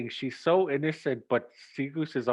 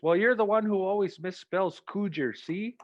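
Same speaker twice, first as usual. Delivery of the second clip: gotcha; 6 semitones higher, 3 dB louder than usual. Retold or imitated. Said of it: "And she goes".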